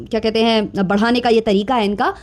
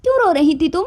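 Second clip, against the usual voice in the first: mocking the voice-over; 4 semitones higher, faster than usual. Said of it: "उस पर voice over चल रहा है".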